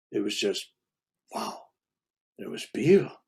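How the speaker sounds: breathless whisper of wonder; awed whisper. Real, not acted. Recalling the saintly voice, an awed whisper.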